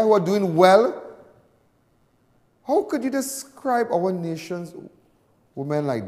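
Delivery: heated rant. Real, not acted. Heated defence of women.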